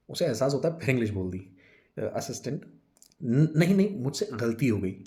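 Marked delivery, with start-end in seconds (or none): 3.2-5.0 hesitant, stammered backtracking; flustered apology. Acted. Assistant placates Vijay after slipping into English, flustered. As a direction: stumble into a hurried apology.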